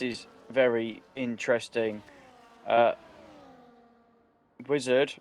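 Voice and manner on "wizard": normal talking voice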